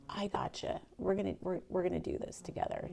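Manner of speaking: soft, hushed mentor reassuring her; lightly voiced mentor, hushed and kind; quiet reassurance. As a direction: gently tell her you've got her. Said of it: "Dan's like".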